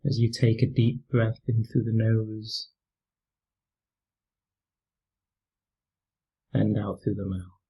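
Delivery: calm, unhurried meditation voice with long pauses; guided meditation. Real, not acted. Teacher leading listeners through a mindfulness practice, calm guided meditation. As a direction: gently guide them through breathing and body awareness, leaving space between phrases.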